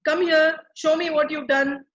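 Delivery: a stern parent barking for the work; harsh summons. Retold or imitated. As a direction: summon the child to be judged. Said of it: "the tone itself is like".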